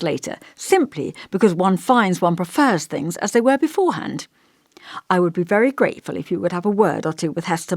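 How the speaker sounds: lightly voiced elderly vicar, musing and gentle; thoughtful old vicar.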